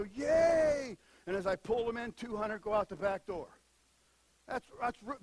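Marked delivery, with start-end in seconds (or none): 0.0-1.0 a louder, mock whoop of joy; mock cheer. Pastor acting his joy at the full net, mock cheer. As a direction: whoop like you landed the catch. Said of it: "and I go".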